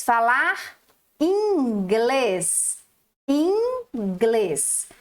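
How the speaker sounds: "inglês" in two parts, in-glês; syllable split. Shown as a demonstration. Teacher splitting the word for the pupils. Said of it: "Dois pedacinhos".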